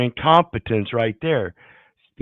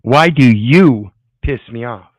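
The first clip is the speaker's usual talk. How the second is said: mocking repeat; 6 dB louder than usual. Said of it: "let's hear that again".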